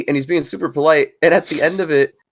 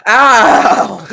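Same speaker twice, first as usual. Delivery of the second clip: high, loud "ow"; pained yelp; 9 semitones higher, 6 dB louder than usual. Real, not acted. Friend hit by loud mic noise, yelping. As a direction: yelp at a sudden blast.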